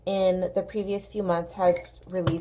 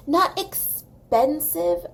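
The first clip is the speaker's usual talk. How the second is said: sarcastic; 8 semitones higher, 4 dB louder, much slower than usual. Real, not acted. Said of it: "ironic aside on price".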